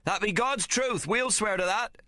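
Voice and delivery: high, slow earnest crew oath; sailors swearing. A narrator's reading. Crew vouching for the boys, high slow oath. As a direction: swear it as one.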